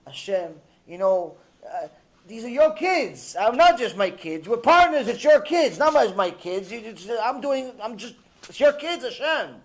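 insistent, pleading mock prayer; tearful pleading. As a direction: plead with God as if at wit's end, without real tears. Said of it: "He's crying to Hashem".

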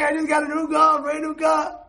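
loud, high, proud shout about the new car; proud boast. Retold or imitated. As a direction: brag like a kid with a new toy.

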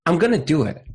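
committed. Shown as a demonstration. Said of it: "The most romantic thing you could say".

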